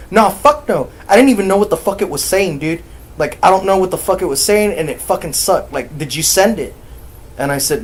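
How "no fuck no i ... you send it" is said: loud, high, fast protest; imitating panicked refusal, fast and raised; freaked-out nephew. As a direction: rattle it off as a spooked nephew.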